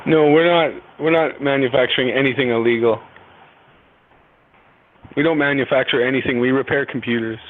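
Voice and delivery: firm denial. Real, not acted. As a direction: push back hard against the charge. Caller denies accusation.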